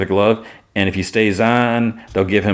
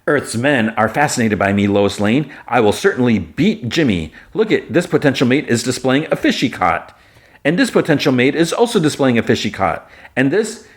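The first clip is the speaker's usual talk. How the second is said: higher-pitched, formal, boastful alien woman; lofty, boastful Kara; 6 semitones higher than usual. Retold or imitated. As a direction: announce each find grandly in a raised, lilting voice. Voices Kara in the recap.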